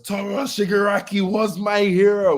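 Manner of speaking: lightly hammed-up character quote; voicing Spinner. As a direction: lift the voice into the lizard guy. Spinner quoted in higher put-on voice.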